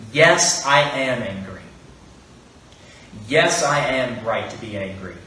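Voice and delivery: a hammed-up Jonah snapping back at God; angry outburst. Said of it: "burst forth in angry".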